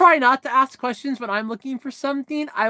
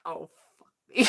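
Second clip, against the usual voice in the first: mock dismay; 7 semitones lower, 6 dB quieter, faster than usual. Dismay at being named.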